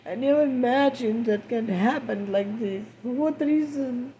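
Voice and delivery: grief-stricken, rising. Real, not acted. Grieving mother after daughter's death.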